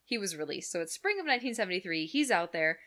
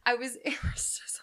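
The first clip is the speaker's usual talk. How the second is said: whisper; 5 semitones higher, 4 dB louder than usual. Real, not acted. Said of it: "whispered aside".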